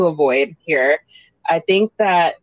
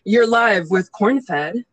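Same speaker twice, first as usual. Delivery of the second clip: radio host voice; slower than usual. Pretend. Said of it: "podcast intro, pretend host".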